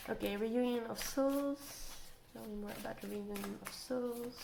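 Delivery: stuffy nose from allergies; blocked nose. Real, not acted. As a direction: speak through a blocked nose. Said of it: "I'm sorry about my nose".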